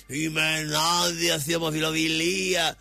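slow, put-on voice of a preachy opponent; mocking the red one. Host mimicking a rival pundit, slow and put-on. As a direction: drawl it out like a sanctimonious rival. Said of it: "κάνει μίμηση τον κόκκινο".

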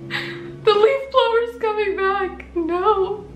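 put-on high, slow English accent. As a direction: drop suddenly into an English accent. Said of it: "sometimes I just break out in an English accent".

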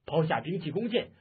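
commanding call. Acted. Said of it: "叫道".

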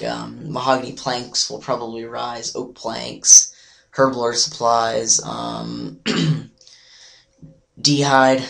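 hoarse, nearly lost voice. Real, not acted. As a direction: talk through a lost voice. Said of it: "I just kinda, like, lost my voice".

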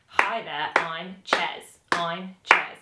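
"I'm" and "Ches" on the beat; rhythmic demo. Shown as a demonstration. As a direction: tap out "I'm" and "Ches" evenly, one beat each. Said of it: "did you notice that I'm and Ches landed with my hand".

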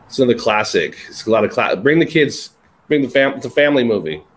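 deadpan sarcastic pitch; tongue-in-cheek mock endorsement. Real, not acted. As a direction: recommend it with dry, understated sarcasm. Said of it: "I'm being sarcastic".

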